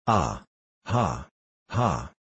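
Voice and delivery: deep booming mocking laugh "ha ha"; a tyrant's cruel belly laugh; roaring laugh. A narrator's reading. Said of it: "roared the latter".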